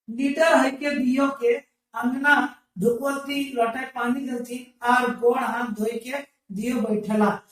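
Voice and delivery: slow sing-song text reading; lilting recital of the text; reading aloud. Acted. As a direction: chant the passage like a class reader. Reads the dialect text aloud.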